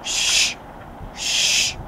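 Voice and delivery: unvoiced hushing; whispered shush. Boys in the field hushing each other, whispered. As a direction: hush them urgently in a whisper. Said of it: "the next thing I heard was".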